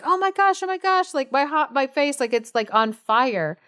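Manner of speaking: high, frantic mock panic; panicked Monkey. Retelling the folktale to cohost, Monkey's high mock panic. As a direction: squeal it out like a burnt monkey.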